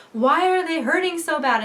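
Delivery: high, loud panicked complaint; retold panic. Labouring woman questions her painful contractions, acting out panic. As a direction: cry out as if panicking, mock distressed. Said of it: "a little panicked".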